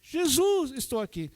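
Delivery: high shouted Jesus, then dropping back; shouted call. Retold or imitated. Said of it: "Era a oração dele".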